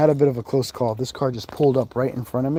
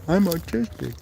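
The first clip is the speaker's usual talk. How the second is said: mock autistic voice; 4 semitones higher than usual. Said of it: "he pretends he's autistic".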